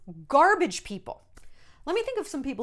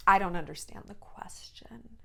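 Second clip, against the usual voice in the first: whispered flat repeat; 3 semitones lower, 4 dB quieter than usual. Retold or imitated. Actress stonewalling a reporter, whispered. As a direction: breathe it out, uninterested. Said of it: "Lily was like".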